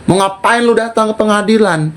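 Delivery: cornering her with questions; retold confrontation. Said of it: "Gue bilang".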